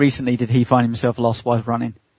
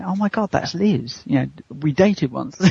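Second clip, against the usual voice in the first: amazed muttering; 3 semitones higher, slower than usual. Retold or imitated. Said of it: "supermarket going".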